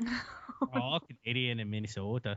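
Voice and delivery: put-on teasing Minnesotan accent with long o's; hammed-up Minnesotan accent; mock Minnesotan accent. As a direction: make fun of the host's Minnesota accent. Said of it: "You making fun of my accent already?".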